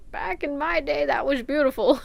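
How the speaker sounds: wistful grandma, lightly voiced. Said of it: "Grandma Pep".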